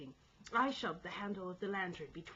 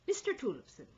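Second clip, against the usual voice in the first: raised, higher voice; calling out; 5 semitones higher, 7 dB louder than usual. A narrator's reading. Sailor to the second mate, calling out. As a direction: call for the officer's attention. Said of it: "I called out to the second".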